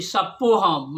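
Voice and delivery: "सप्पो" with the r dropped; childlike lisped pronunciation. Retold or imitated. Child Sheshnag answers his frightened mother, lisped pronunciation. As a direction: say "सप्पो" with a doubled p, no r. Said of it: "तोतली आवाज़ में बोलते हैं".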